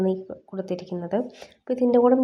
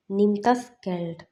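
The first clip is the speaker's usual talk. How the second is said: very slow, every word spaced out; slow it right down for learners; slow teaching demo; much slower than usual. Shown as a demonstration. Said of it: "അതായത്". (വളരെ പതുക്കെ പറയുക)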